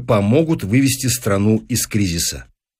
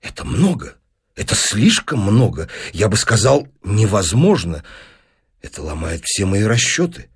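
lower-voiced, hesitant scientist; troubled professor; 3 semitones lower than usual. Professor protesting an impossible demand, troubled. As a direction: object haltingly, weighing each phrase.

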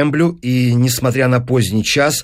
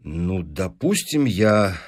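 halting, uneasy concession; growing agitation; 3 semitones lower, slower than usual. Acted. Professor accepting the clause, increasingly uneasy. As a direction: give in warily, with understated nerves. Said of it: "всё более и более волнуясь".

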